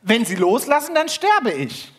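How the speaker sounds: hoch und laut, verzweifelt; flehend. Acted. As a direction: fleh um dein Leben. Fremder ruft vom Seil. (flehend gerufen, hoch)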